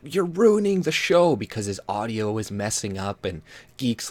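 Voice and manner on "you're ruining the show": mock scolding. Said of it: "he called Geek, like, an idiot".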